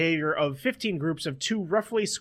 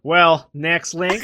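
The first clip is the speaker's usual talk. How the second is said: slow, louder pointed move on; 7 dB louder, much slower than usual. Acted. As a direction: drag it out to move the show on. Moving the show on.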